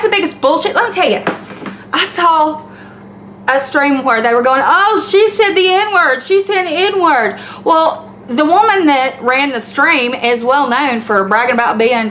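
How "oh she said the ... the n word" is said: higher, drawn-out tattling imitation; mock accusing. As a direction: imitate scandalized accusers, high and slow. Acting out a stream's accusers.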